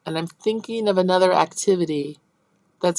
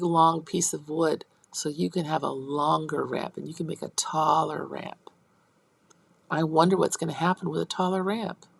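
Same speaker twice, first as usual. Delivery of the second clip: put-on teacher talk to kids. Shown as a demonstration. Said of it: "So let's say".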